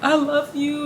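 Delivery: high, sugary "I love you"; mock sweet. Mocking a clingy partner's sweet talk, high and syrupy. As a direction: imitate someone sweet-talking you, a touch hammed-up. Mimicking a manipulative Cancer partner.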